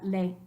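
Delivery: LEY split as le, then Í; two-syllable leí. Shown as a demonstration. Teacher summing up the accent rule, two-syllable le-Í. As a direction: separate ley into two beats, le-í. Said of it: "start its own syllable".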